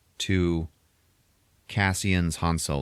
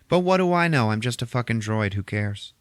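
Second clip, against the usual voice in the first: sarcastic droid; 4 semitones higher than usual. Retold or imitated.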